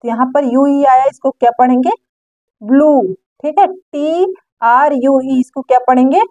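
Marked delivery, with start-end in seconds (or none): 2.6-3.0 "ब्लू" modelled alone with a full oo ending; teacher's clear demo of "ब्लू", long final vowel. Shown as a demonstration. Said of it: "ओ का long sound".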